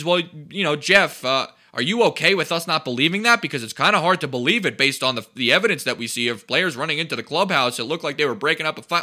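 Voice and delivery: lightly mock the nagging journalist; a hint of a pestering beat reporter. Mimicking beat reporters' questions.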